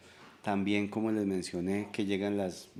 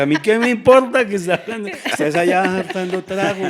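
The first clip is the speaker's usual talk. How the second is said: higher and much louder, a heated snap back; angry retort; 10 semitones higher, 11 dB louder than usual. Retold or imitated. Husband snapping back at his wife during a quarrel, angry. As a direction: fire it back in the middle of a fight.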